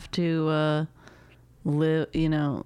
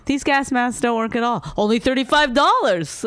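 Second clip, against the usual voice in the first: lightly done Jewish voice, louder and higher; a hint of a Jewish accent; 5 semitones higher, 4 dB louder than usual. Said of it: "That was trying to do a Jewish voice".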